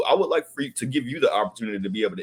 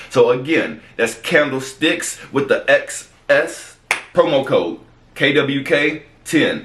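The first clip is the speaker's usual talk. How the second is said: slow, louder promo-code read; 3 semitones higher, 7 dB louder, slower than usual. Acted. Host repeats the candle promo code, slow ad read. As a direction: spell out the code deliberately, projecting.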